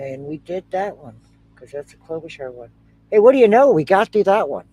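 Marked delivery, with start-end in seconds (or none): 3.1-4.7 pleased exclamation. Real, not acted. Pleased at finishing the segment.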